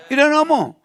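emphatic. Real, not acted. Emphatic campaign speech point.

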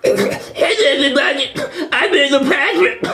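talking while drinking. Acted. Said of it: "let little Patrick do all the talking".

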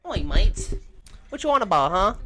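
loud hammed-up English lad; teasing imitation of English slang; mock English accent. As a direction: put on a brash English accent. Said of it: "Oh, she from England?".

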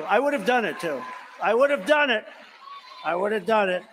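loud, high repeated claim; emphatic insistence. Real, not acted. Boasting to the crowd, loud emphatic repeat.

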